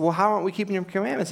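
rapid defensive question, acted out; mock protest. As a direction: imitate people questioning an accusation. Voicing Israel protesting to God.

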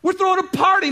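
overjoyed father repeating the news; laughing, jubilant. Acted. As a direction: cry out the party news with a laugh.

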